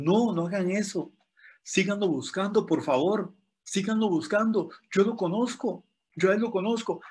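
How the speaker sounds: high, urgent begging to the firemen; pleading coworker. Retold or imitated. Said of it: "le dijo a los bomberos".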